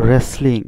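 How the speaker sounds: রেসলিং begun straight on R; teacher modelling রেসলিং, opening on R; silent W. Shown as a demonstration. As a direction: say রেসলিং with no W sound. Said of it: "ডব্লিউর উচ্চারণটা হয়নি".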